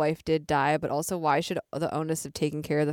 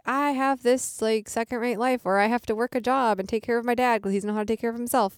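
higher-pitched mock grumbling; acted complaint; 5 semitones higher than usual. Host voices the film heroine's lament, mock complaining. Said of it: "her being like".

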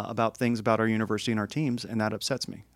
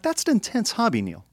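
teasing remark; 10 semitones higher than usual. Retold or imitated. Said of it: "I'm like".

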